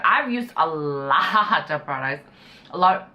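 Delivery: talking with food in mouth; mouth full. Real, not acted. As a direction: speak through a mouthful. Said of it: "I have something in my mouth".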